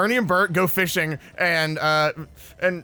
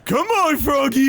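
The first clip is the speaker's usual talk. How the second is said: high, loud coaxing call; calling a critter; 9 semitones higher, 5 dB louder, slower than usual. Pretend. Player calling to a froggy in the game, coaxing call. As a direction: coax it with a high, playful holler.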